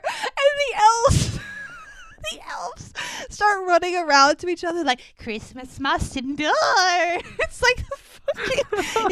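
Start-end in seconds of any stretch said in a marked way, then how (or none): 5.2-6.5 creepy, strained little creature voice; Schmeagol. Retold or imitated. Elves chanting to each other, in a creature voice. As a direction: imitate a creature's eerie chant. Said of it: "it's like Schmeagol".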